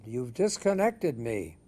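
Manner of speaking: put-on slow, indignant British officer's accent; imitated British complaint, slow and stressed. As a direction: put on a stern British accent, drawing the words out. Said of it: "said this in a very British accent".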